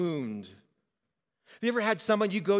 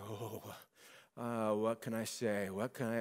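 flustered hesitation; 7 semitones lower, 9 dB quieter than usual. Retold or imitated. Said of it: "I'm like".

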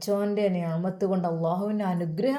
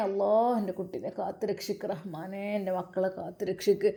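soft murmured prayer; 2 semitones lower, 6 dB quieter than usual. Acted. Mother prays for traveling son.

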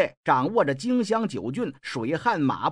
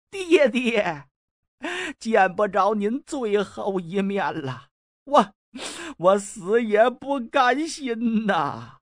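drawn-out tearful call to his dying father, pitch rising; tearful cry; 4 semitones higher, slower than usual. Acted. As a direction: wail it slowly through tears. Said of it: "流着眼泪喊了一声". (含泪拖长声音哭喊爹爹)

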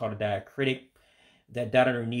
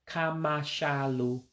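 Igbo accent; 3 semitones higher, slower than usual. Shown as a demonstration. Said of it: "with an accent to it".

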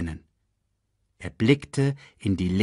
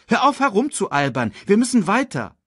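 higher, insistent cub voice; slightly annoyed; 12 semitones higher, 5 dB louder than usual. A narrator's reading. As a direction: scold a playmate with mild irritation. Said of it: "sagte Simba etwas verärgert".

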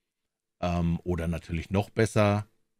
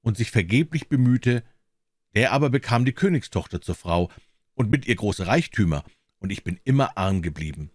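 measured fairy-tale reading, lively on the dialogue; story narration. A narrator's reading. Narrator tells a tale of a soldier and the devil, storytelling. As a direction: read it as an expressive storyteller.

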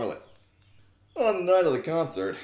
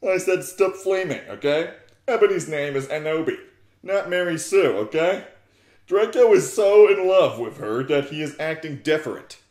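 mock scolding; 3 semitones higher, 6 dB louder than usual. Author scolding readers.

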